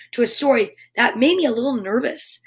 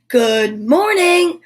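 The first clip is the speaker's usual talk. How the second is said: whizzed; 3 semitones higher, 4 dB louder, much slower than usual. Acted. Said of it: "whizzed a locust".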